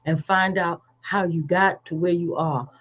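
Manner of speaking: rising and falling sermon cadence, building to calls; full preacher's delivery; preaching. Acted. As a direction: preach it to the congregation.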